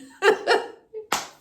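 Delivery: bright giggle after the slip; high burst of laughter. Real, not acted. Coach laughing at her own mistake.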